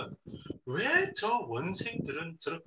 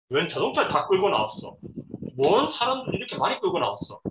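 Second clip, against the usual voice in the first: louder, mock-indignant complaint; disgruntled grumble; 3 semitones higher, 4 dB louder than usual. New director sees the welcoming cars, disgruntled. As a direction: grumble emphatically, as if put out.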